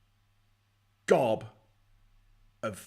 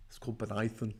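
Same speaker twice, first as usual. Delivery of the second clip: whispered name; breathy whispered aside; mock whisper; 6 dB quieter than usual. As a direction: hush it like a secret joke. Mocking posh agent's kid name.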